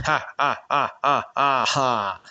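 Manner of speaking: a light, read-out ha ha laugh; easy chuckling ha ha ha; amused laugh. A narrator's reading. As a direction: laugh it off, shaking your head. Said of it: "Sheun laughed".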